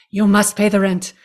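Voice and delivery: hint of a sneering landlord demanding rent; sneering panto villain. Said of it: "this is the world's shortest play".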